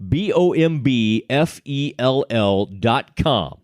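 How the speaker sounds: slow, careful letter-by-letter "B O M B F E L L"; spelled out slowly. Shown as a demonstration. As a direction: spell "B O M B F E L L" slowly so nobody misses it. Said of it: "I want to spell this out for you".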